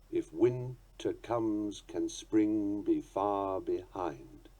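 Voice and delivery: slow, soft recitation; a quiet reading of Shelley; poem reading. Shown as a demonstration. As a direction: recite the line slowly and gently. Poetry quoted as example.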